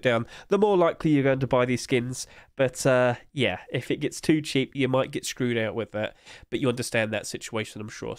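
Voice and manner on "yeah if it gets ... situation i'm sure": stuffy blocked nose; nasal voice. Real, not acted. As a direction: talk through a head cold. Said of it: "sorry about the nose".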